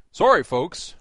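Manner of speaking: Wally World Moose voice. Retold or imitated. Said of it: "like the Wally World Moose".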